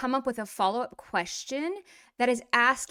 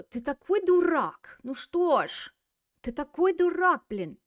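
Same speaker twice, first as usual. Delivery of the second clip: louder, higher mock exasperation; mock insult; 6 semitones higher, 5 dB louder than usual. Teacher demonstrates calling a friend a fool, mock exasperated.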